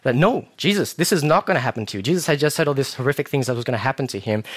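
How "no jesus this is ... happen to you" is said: quick, high, insistent refusal; protective protest. Acted. Peter refusing to let Jesus suffer, insistent. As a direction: cut in to forbid it. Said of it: "this is the kind of intention".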